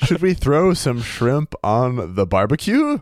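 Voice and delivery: slow, hammed-up Australian cliché; mock Australian accent. Joking about bad Australian impressions, slow mock Australian accent. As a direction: lean into the stereotype, slowly. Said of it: "what I thought was an Australian accent".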